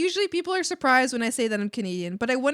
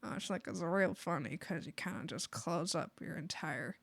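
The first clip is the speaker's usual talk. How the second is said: Southern accent; 4 semitones lower, 7 dB quieter than usual. Shown as a demonstration. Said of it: "And then the Southern accent".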